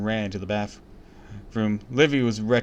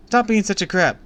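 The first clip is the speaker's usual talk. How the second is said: loud, much higher snap; angry yell; 11 semitones higher, 7 dB louder than usual. A narrator's reading. Sister yelling at the annoying neighbor boy, angry. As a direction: tell him off hard.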